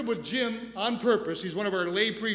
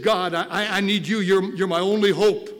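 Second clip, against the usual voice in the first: lightly voiced pleading king, swelling louder; David's plea; 10 dB louder than usual. Pastor voicing David begging God, growing louder. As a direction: beg God as the only hope. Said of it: "He said".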